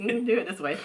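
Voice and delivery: retold nice nudge to a partner, lightly acted; nicely said. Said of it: "try my best to nicely say".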